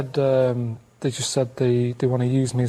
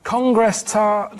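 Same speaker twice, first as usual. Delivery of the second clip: slow code word; 5 semitones higher, much slower than usual. Pretend.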